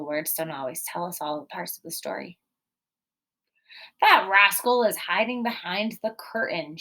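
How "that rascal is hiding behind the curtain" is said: happily. Acted. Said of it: "she said happily".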